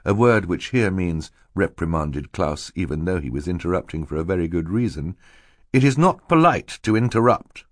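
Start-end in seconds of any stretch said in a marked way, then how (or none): 5.7-7.6 higher, mild scolding; admonishing. A narrator's reading. Mister Poe reprimands Klaus for interrupting, admonishing. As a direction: reprove a child primly. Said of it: "Mister Poe admonished".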